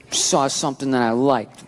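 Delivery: put-on slow, low pouty little-girl murmur; small sulky manipulative voice; little girl pout. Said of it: "She went with the little girl".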